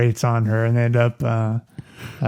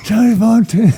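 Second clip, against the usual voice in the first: Johnny Fontaine voice; 8 semitones higher, 3 dB louder than usual. Retold or imitated. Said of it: "I can't do a Johnny Fontaine".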